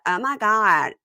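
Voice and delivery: mock Valley Girl squeal. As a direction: toss off a Valley Girl gasp. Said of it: "the Valley back in the day".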